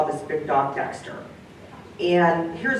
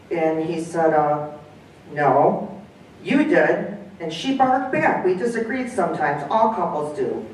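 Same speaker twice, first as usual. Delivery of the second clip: story reading. Acted. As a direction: read aloud with lively dialogue, dog and man voiced lightly. Reads the story aloud, voicing figures.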